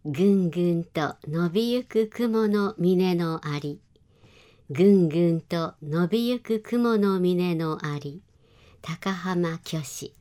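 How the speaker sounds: slow, measured haiku reading; poem read out unhurriedly; haiku recitation. Shown as a demonstration. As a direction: recite it slowly, drawing out the phrases. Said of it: "今週の俳句をお願いします".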